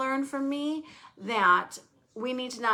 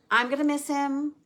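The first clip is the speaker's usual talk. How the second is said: choking up; 4 semitones higher, 6 dB louder than usual. Real, not acted. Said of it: "I can't talk about it".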